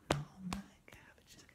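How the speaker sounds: breathy whisper of the song line; whispered call. Acted. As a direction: whisper it for the kids to answer.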